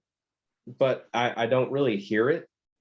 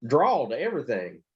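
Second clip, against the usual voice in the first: higher protest; 6 semitones higher than usual. Retold or imitated. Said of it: "I'm like".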